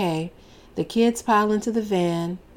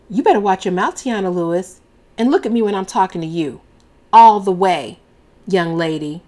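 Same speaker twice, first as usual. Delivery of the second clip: louder, rising to a near shout; stern scolding; 2 semitones higher, 7 dB louder than usual. Acted. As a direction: lay down the law to a mouthy teen. Mother scolds daughter in car.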